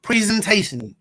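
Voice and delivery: crackly distorted microphone; distorted mic. Real, not acted. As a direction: voice breaking up through a bad mic. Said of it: "Your mic, your mic is distorted".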